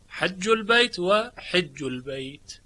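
حج البیت first with a, then with i under ha; hajj and hijj. Shown as a demonstration. Teacher contrasts both readings for students, slowly. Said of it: "شعبه به کسر حاء خونده".

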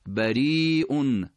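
بریئون sung out slowly; slow recited بریئون; drawn-out demo. Shown as a demonstration. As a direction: stretch بریئون with the hamza heard. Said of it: "عین همین کلمه رو داشتید".

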